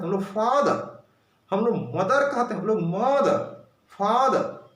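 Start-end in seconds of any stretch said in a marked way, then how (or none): 0.2-1.0 American accent. Shown as a demonstration. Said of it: "short में बोलते हैं".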